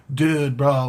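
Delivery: laid-back surfer bro voice, hushed; California stoner bro. Retold or imitated. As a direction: drawl it like a stoned California dude. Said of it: "speaking like a stoner bro from California".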